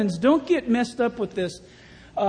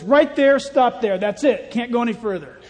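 a touch of a commanding God, louder; 3 semitones higher, 5 dB louder than usual. Acted. God telling the ocean to stop, mildly commanding. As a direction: halt the waves with a firm word.

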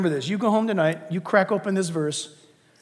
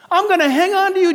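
voicing God; 9 semitones higher, 5 dB louder than usual. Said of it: "And he's saying".

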